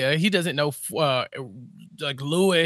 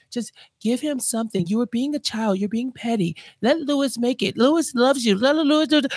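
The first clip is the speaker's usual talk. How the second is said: high, rising mock scold; mock scolding Donna; 5 semitones higher than usual. Donna voiced scolding Harvey.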